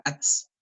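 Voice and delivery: "ats" with a separate, audible ts ending; theoretical pronunciation. Shown as a demonstration. Teacher models the word for students, "ats" pronounced with final ts. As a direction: sound out the ts closing "ats". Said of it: "debería pronunciarse así".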